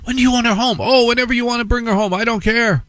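mock carefree parent; breezy parent. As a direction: brush it off happily. Parent dialogue acted.

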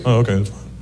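accepting white listener. Retold or imitated. White guy hearing the comedian's name, easygoing. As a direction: shrug it off in a low, easy voice. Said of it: "White people, they hear Russell Peters".

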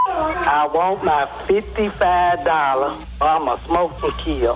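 reading the note. Retold or imitated. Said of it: "Read that back to me".

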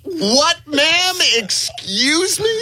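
very high, drawn-out incredulous squeal; mock indignant disbelief. Man answering the woman who scolded him, hammed-up indignation. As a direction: act affronted, stretching it way up high. Acts out indignant reply at bar.

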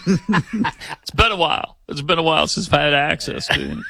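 joking ex-president impression with laughter around it; Bill Clinton. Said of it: "Clinton was so impressed with him".

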